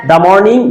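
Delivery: "the" said "dah" before morning. Shown as a demonstration. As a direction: say "the" with an ah vowel. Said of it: "আর এটা হবে দা".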